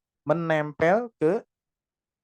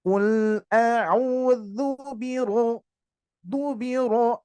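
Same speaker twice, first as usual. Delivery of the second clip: very slow chanted "biro" with a thick r; drawn-out tajwid recitation; slow recitation, heavy ro; 5 semitones higher, much slower than usual. Shown as a demonstration. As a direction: recite slowly with a full, heavy ro. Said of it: "tebal ya".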